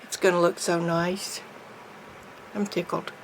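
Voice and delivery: speaking with a lisp; lispy voice. Real, not acted. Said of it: "That's my lispy voice".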